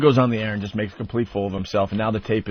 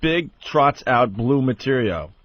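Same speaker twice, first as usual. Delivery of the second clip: headline read; slower than usual. Shown as a demonstration. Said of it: "the headline is".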